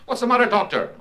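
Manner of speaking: high-pitched startled question. Acted. Woman on the couch to returning doctor, high and startled. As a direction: jolt upright and ask in alarm. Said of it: "the woman sat bolt upright".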